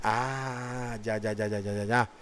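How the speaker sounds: a dawning, embarrassed acknowledgment, dropping right off; sheepish, quiet "no, no, sí, sí"; sheepish realization. Retold or imitated. People sheepishly admit.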